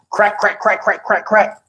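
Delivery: soft, hushed imitation of planks cracking one after another. To viewers, mimicking his back cracking with quiet crack sounds. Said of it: "my shit sound like five planks getting broke".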